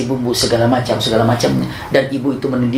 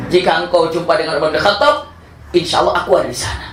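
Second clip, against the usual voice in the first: said again a little higher, through a laugh; amused, lightly raised retelling; laughing retake; 5 semitones higher than usual. Shown as a demonstration. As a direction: redo the promise half laughing. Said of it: "Nggak bohong kan?".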